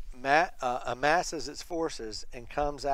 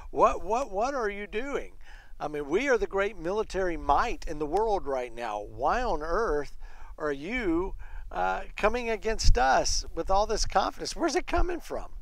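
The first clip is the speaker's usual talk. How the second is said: mock-baffled challenge in a higher voice; incredulous commander; 4 semitones higher than usual. Commander taunting a tiny kingdom, incredulous. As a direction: question them as if they've lost their minds.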